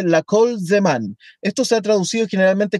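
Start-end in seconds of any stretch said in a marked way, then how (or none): 0.0-1.2 "La kol zeman" read slowly, weight on "kol"; slow Hebrew. Shown as a demonstration. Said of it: "la primera frase dice".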